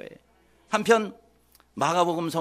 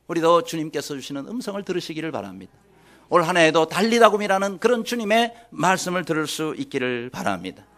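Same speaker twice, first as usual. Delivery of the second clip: ordinary delivery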